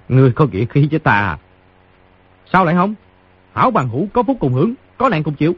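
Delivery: high-pitched, heartily approving; amused, laughing reply. A narrator's reading. Wounded fighter accepting the boy's friendship, amused high voice. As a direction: chuckle first, then climb into a high voice. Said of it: "cười nói".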